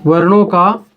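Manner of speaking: spaced-out phrases, firmly placed; word-by-word dictation. Real, not acted. Teacher dictating the definition of वर्ण विचार to students, word-by-word dictation. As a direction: dictate in short chunks with long pauses. Dictating words while writing them out.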